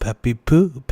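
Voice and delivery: usual speaking voice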